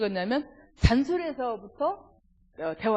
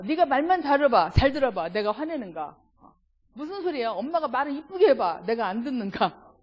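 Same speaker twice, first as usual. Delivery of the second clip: put-on heated parent-child quarrel; 3 dB louder than usual.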